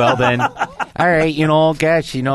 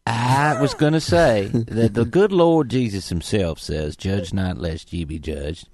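put-on Southern accent; 3 semitones lower, slower than usual. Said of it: "parodying the accent of the typical Southern gentleman".

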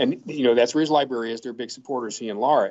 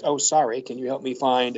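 lightly imitated Georgia accent. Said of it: "in that Georgia voice".

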